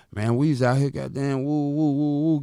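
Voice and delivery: loud, pumped-up street hype; hyped-up buddy. Retold or imitated. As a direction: shout it like you're fired up about the cash. Friend hyped about getting money.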